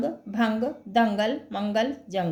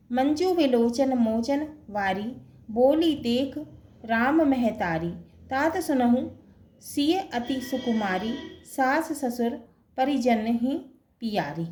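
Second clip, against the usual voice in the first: poem recitation. Shown as a demonstration. Teacher recites the chaupai example to the class, measured verse.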